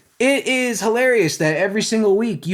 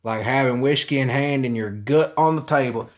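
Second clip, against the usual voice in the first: put-on country accent; 4 semitones lower, 3 dB quieter than usual. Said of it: "I gotta get the country accent for real".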